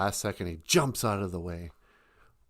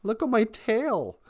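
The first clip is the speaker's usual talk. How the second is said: much higher, much louder wail; crying out; 13 semitones higher, 12 dB louder than usual. Acted. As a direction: cry out to the heavens in despair. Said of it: "he cried out to Gitche Manadu".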